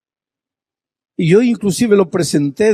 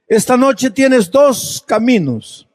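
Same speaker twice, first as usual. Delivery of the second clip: quoted altar call; 9 semitones higher, slower than usual. Retold or imitated. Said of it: "y dijo así".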